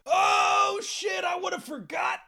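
high startled oh shit; sudden realization. Real, not acted. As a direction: caught off guard, pitch jumping up. Suddenly remembers the topic.

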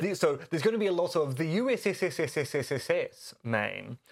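"U S S S S S S S S S Maine" with the S repeated on and on; drawn-out s like a snake. Shown as a demonstration. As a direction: hiss out "S S S S" in a long run before "Maine". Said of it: "I can't even say U S S without working out where to stop saying my S's".

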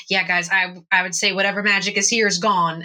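casual character voice near the speaker's own; Zach. Acted. Zach agreeing the magic is gone, casual character voice. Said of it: "says in the correct voice".

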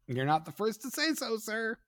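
alzado y cortés, con sorna; mock-polite reply. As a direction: say it high and prim, half joking. Retold weary reply, high.

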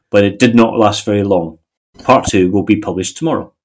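measured, even reading in sentences; article read-aloud. Acted. Co-host reads a Dutch tradesman's wartime account, measured read-aloud. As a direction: read out a printed first-hand account.

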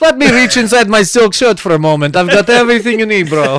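hammed-up Bosnian smuggler accent; foreign accent. Bosnian traveler opening his shirt at the border, mock accent. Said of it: "the guy's like".

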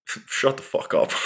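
said through real laughter; laughing. Real, not acted. Telling off people who mock meditation, laughing. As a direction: laugh the words out at them.

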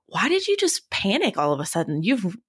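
mock exasperated self-pep talk; incredulous self-talk. Runner retelling how she questioned herself, incredulous self-talk.

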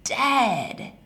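high, slow, tearful yell; retold yell with crying. Mother yelling the grandmother's death at her, tearful. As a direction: cry out the news, breaking. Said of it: "And she yells back".

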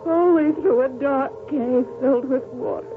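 feverish dream narration. Acted. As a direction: let the dream drag you under. Dream voice-over of burning.

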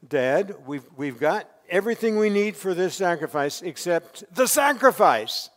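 laughing through a mock polite question; amused polite son. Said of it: "very politely saying".

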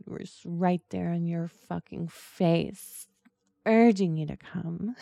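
demanding. Shown as a demonstration. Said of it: "more demanding".

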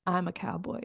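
a hint of Russian accent; Stalin accent attempt. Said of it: "if I think of Stalin, I bet he was like".

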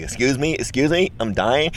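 high, tentative mock plea with rising endings; polite attention-seeking. Imitates patient tapping shoulders for attention.

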